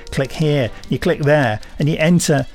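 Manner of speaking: put-on light northern English accent, chatty and pleased with himself; a mild Lancashire-Yorkshire twang throughout; generalised northern accent. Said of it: "This has been my generalised northern accent".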